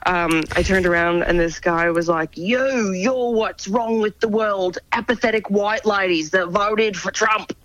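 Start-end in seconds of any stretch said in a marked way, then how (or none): 2.4-7.5 mock yell, higher and drawn out; imitated angry stranger. Actor retelling a cranky stranger's rant at her, mock angry yell. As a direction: imitate a ranting stranger without full volume. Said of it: "just insane screaming".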